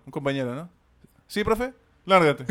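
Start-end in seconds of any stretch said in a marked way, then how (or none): 1.3-2.5 teacher throwing out. Retold or imitated. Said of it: "Así".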